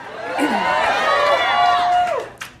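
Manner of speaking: a squeaky, exaggerated ahem; high theatrical throat clear. Comic setting up his impression, a squeaky mock throat clear. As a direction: clear the throat high and showy before the bit. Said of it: "This is".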